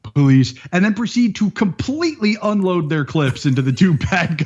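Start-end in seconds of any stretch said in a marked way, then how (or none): 0.0-0.5 louder flat emotionless call; deadpan. Retold or imitated. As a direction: announce it with no feeling at all. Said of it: "no emotion whatsoever".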